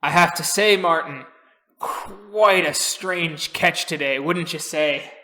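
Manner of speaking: lightly voiced old seadog; old crusty sailor. Old sailor remarking to Martin on today's catch, lightly crusty. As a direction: stretch the words like a salty old sailor. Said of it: "you see an old, crusty sailor going".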